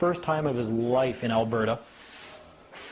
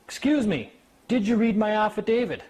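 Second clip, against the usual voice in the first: insistent brother; 8 semitones higher, 3 dB louder than usual. Retold or imitated.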